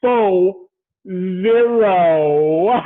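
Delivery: big slow announcement of a milestone; drawn-out hype. Real, not acted. Host teasing friend on turning forty, drawn-out hype. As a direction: stretch it out slowly, syllable by syllable. Hyping his friend's fortieth birthday.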